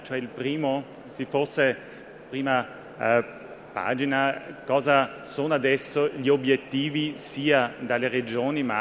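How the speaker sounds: Italian spoken with an Austrian accent; careful Italian with an Austrian accent. Real, not acted. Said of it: "Scusate il mio, eh, italiano un po', eh, austriaco". (italiano con accento austriaco)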